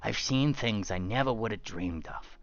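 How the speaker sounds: a hint of a rumpled detective; lightly voiced gumshoe, musing; Columbo impression. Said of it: "I'm gonna do Columbo".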